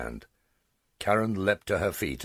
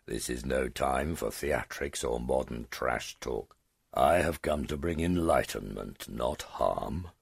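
condescending; 3 semitones lower than usual. Acted. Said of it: "in a condescending tone".

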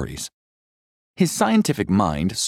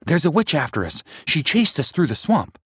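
put-on scared boy; 10 semitones higher than usual. A narrator's reading. Scared boy reports witch.

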